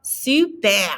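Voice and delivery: "Super" ending in a throaty French R; model word. Shown as a demonstration. Teacher repeats super, throaty R. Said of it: "that R again is in the back".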